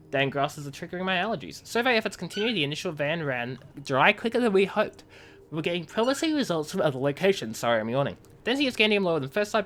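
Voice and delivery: lightly voiced in-character message read; reading game messages. Streamer reads a miner's report to chat, lightly acted. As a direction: read the colony log like a letter home.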